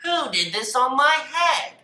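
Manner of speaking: high, loud eager question; bursting to know; excitedly. A narrator's reading. Mole asks the flies excitedly, high and loud. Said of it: "he asked excitedly".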